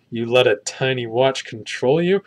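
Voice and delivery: lightly voiced puzzled warrior woman; gently disbelieving, like she can't fathom it; puzzled Wonder Woman. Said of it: "she's like".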